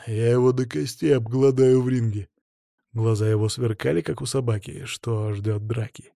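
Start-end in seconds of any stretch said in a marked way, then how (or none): 0.1-2.3 voiced threat through gritted teeth; tight-jawed fighter's threat. A narrator's reading. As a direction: menace another fighter, jaw held tight. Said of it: "процедил он".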